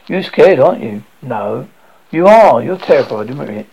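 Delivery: mother taunting her scared son, loud and mocking; loud teasing. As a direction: needle him loudly like a cat with a mouse.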